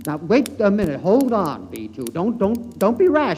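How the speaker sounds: high, loud, frantic begging; panicked pleading. Acted. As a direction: plead desperately as he's being overpowered. Man struggling as puppet attacks.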